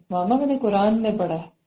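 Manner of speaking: gentle, affectionate telling; loving. Shown as a demonstration. Child correcting a parent, lovingly. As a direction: break it to mama tenderly. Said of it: "تو ایسے پیار سے کہے".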